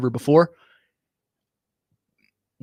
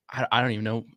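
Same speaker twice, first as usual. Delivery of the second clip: choked up; faster than usual. Real, not acted. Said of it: "See, I'm, I'm choking up".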